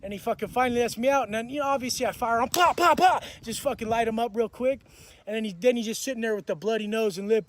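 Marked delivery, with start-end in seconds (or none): 2.5-3.2 loud, high popped-out punches; punch sound effects. Retold or imitated. Retelling the punches he fired, loud punch sounds. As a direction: punch out each pop sharply.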